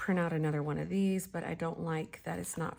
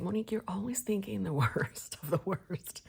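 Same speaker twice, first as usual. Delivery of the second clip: amused self-scolding; 2 semitones higher than usual. Retold or imitated. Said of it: "I'm like".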